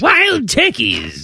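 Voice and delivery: high, drawn-out caricature voice; mock exclamation. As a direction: stretch it out slowly in a high put-on voice. Mock-exclaiming the letter's line.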